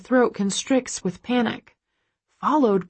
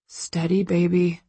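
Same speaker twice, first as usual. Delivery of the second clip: calm. A narrator's reading. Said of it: "Christian says calmly".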